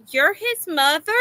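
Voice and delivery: puzzled question with rising end; imitated incredulous child. Little girl questions a classmate's mother, imitated incredulity. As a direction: mimic a little girl's disbelief.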